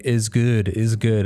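a light mock of simple broken English. Imitating his broken English to his partner. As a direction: say it the way you would to a learner. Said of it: "that bad broken English".

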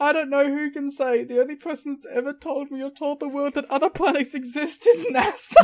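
high, excitable Southern voice; worked-up Southern impression, rising at the end; Southern accent. Ranting about planets as the wrestler, Southern accent. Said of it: "doing different Southern accents every time".

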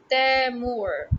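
"Temur" slowly, stretching the a of cat in Tem; drawn-out Temur. Shown as a demonstration. Showing the a sound in a name, drawn-out Temur. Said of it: "For example, there's Temur".

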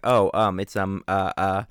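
mock hesitant fumbling, loud; searching for the word. Acting out his own habit while remembering, searching for the word. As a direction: imitate thinking aloud with ums. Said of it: "trying to think of something".

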